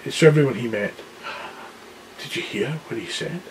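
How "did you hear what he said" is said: excited boast. Acted. Excited lion boasting to everyone.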